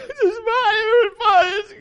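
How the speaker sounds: high, loud mock-hysterical wailing; hammed-up panic. Wife panicking as daughter's foot bleeds, hammed-up high wailing. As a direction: play the frantic mom losing it over blood.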